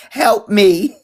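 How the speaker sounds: half-laughing help me; laughing mock plea. Imitating Melania's plea, laughing. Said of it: "Melania was blinking twice".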